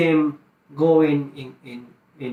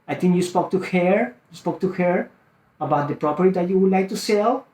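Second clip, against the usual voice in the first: statement turned question, rising on "her" and "sell"; questioning tonality; 3 semitones higher than usual. Shown as a demonstration. Sales coach modelling a call to a seller, questioning tonality. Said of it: "question mark".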